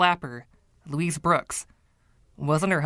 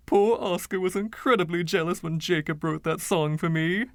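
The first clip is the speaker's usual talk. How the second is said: lightly voiced flamboyant old charmer, a touch higher; Freddie; 5 semitones higher than usual. Freddie's voice in narration.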